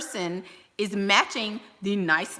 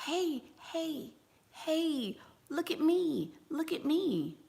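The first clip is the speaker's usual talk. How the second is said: high, soft, pleading whine; whiny attention-seeking; 8 semitones higher, 7 dB quieter, slower than usual. Shown as a demonstration. Mother mocks the wrong way to get attention, high and whiny. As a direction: beg for attention like a needy kid. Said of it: "speak with authority instead of".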